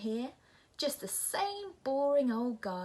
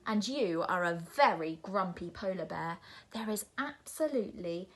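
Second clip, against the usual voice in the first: shouting; 6 dB louder than usual. Acted. Nora shouting at the polar bear, building. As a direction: rant louder and louder at the bear. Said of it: "shouts Nora".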